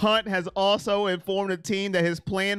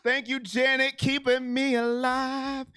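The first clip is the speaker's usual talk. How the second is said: slightly stretched, steady delivery; 2 semitones higher than usual. Real, not acted. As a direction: thank a donor, easing the pace a little. Donor thanks, said twice, second stretched.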